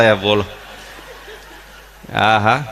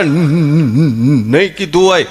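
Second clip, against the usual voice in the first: mock stammer; 3 dB louder, slower than usual. Stammerer answers.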